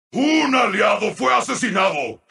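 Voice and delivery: brisk, projected announcement; urgent announcer call. Acted. Announcer reporting an ally slain, urgently. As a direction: announce it quickly and firmly.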